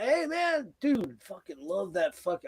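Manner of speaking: high-pitched, drawn-out fanboy gush; gushing fan greeting. Retold or imitated. Gushing to musician in retold greeting.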